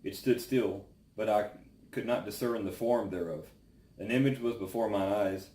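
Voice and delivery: solemn, measured Bible reading aloud; scripture reading. Acted. Reads Job chapter four aloud.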